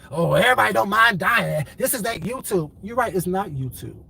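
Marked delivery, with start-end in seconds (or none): 0.1-2.7 mocking imitation. Speaker mimicking people who brag about not minding dying, mocking. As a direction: parrot the tough talk mockingly. Mimicking goons' big talk.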